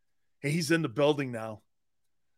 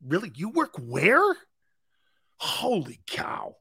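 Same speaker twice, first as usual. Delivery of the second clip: mock amazement; 2 semitones higher, slower than usual. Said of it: "I was".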